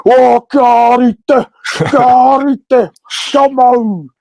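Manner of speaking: a drawn-out excited cry; elated cheer. Retold or imitated. Patron cheering him on to do the haka.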